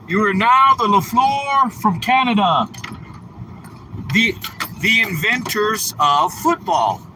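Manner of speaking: lightly hammed-up naming ceremony; mock announcement. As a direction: announce the new name like a ceremony. Grand renaming announcement.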